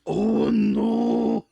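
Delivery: loud, high cry of horror; horrified scream. A narrator's reading. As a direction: scream it out in hammed-up dread. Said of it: "as he screams".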